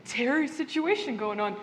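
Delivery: a breezy friendly ghost; chirpy ghost Terry. Acted.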